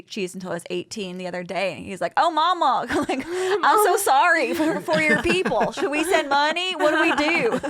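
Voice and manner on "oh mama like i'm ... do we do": pleading in a hammed-up high voice; mock distressed sympathy. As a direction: play up the anguished concern. Retold quote of distressed sympathy.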